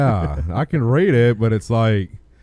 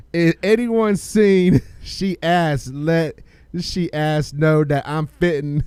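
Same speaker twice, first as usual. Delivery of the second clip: character voice. Pretend. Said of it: "I'm gonna have to get a character for this one".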